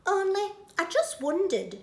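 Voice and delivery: high, coy question; coy Betty. Acted. Betty asks Bill shyly, coy. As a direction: fish for an answer. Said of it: "she says".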